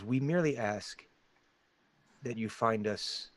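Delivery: soft, slowing hooded stranger; deep gravelly voice. Acted. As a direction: ask it quietly, drawing out the end. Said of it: "it's in this deep, gravelly voice".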